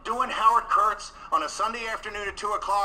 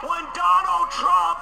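louder and slower, higher; rising shout; 5 semitones higher, 4 dB louder, slower than usual. Acted. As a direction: call it out like a rally cry. Builds to Trump's inauguration.

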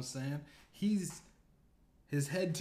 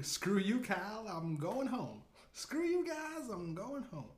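high whiny cartoon kid storming off; 7 semitones higher than usual. Mocking his buddy leaving the game in a bratty kid voice. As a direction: pitch up into a bratty squeal for the last line. Quoting the cartoon kid's famous exit.

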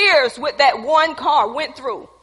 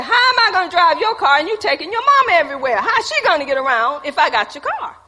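excited protest; 5 semitones higher, 4 dB louder than usual. Retold or imitated. Protesting to boyfriend about his car.

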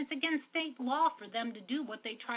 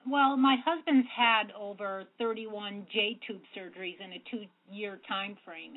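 a bit louder and slower, on request; raised voice, measured pace; speaking up; slower than usual. Shown as a demonstration. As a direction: project a little more for the listener. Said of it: "could you speak just a little bit louder".

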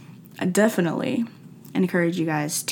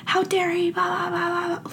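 high, huffy mock outrage; mock indignation; 11 semitones higher than usual. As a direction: scoff at him, then wave it off. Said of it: "I was like".

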